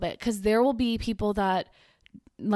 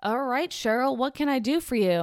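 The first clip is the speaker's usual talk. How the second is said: higher mock host voice; lightly voiced host, higher and cheerful; imitating radio host; 5 semitones higher than usual. Vlogger mimicking a host greeting caller Cheryl, lightly voiced. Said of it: "And they're like".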